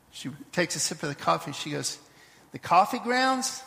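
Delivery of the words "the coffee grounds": a mother's voice, higher and slow; lightly voiced mother, drawing out the lesson; hint of a patient mother, rising as she explains; wise mother.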